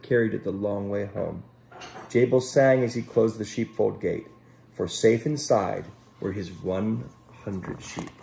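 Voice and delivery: gentle storybook reading voice; unhurried picture-book narration; storytelling. Acted. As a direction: read it like a bedtime story for children. Children's story read aloud.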